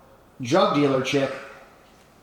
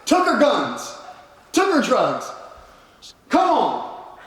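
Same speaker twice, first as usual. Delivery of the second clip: retold fury; 11 semitones higher than usual. Telling the host how he confronted her, raised indignant retelling. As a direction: hammer home the outrage. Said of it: "replaying the confrontation".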